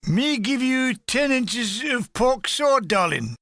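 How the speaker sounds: crude catcall. Retold or imitated. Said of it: "to the less poetic".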